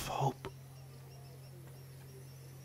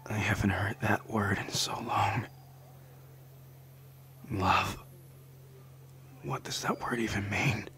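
soft stunned whisper; 9 dB quieter than usual. Acted. Tender confession to the listener.

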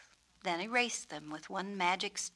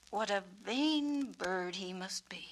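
breathy scornful whisper of onlookers; mock the vain bird behind his back; sneering gossip. Peacock imitating people sneering at him.

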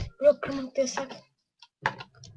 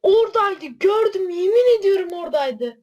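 shaken insisting; 3 semitones higher, 5 dB louder than usual. Real, not acted. Shaken after jump scare.

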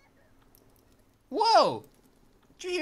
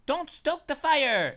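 slow, louder mock warning; 2 semitones higher, 4 dB louder, much slower than usual. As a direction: drag the warning out like a scolding parent. Reads list, mock warns against it.

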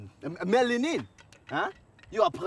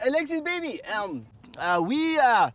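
fake French accent. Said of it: "what happened to your accent".

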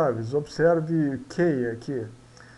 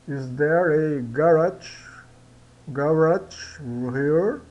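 slow, deliberate "Is there a garage here?"; slow model sentence; slower than usual. Shown as a demonstration. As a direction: drill it slowly for learners. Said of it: "Tem que enrolar a língua".

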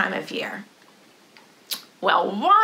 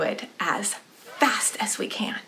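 whispered softly; 3 semitones lower, 6 dB quieter than usual. Shown as a demonstration. Teacher telling kids the next round, whispering. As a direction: breathe it out in a hush.

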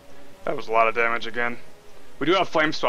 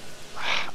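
soft, voiceless exhale; frustrated sigh; 6 dB quieter than usual. Real, not acted. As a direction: let out an exasperated breath. Frustrated at missing the enemy.

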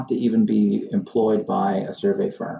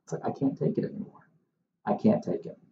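exasperated whisper; 5 semitones higher, 7 dB quieter than usual. Real, not acted. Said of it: "exasperated whisper aside".

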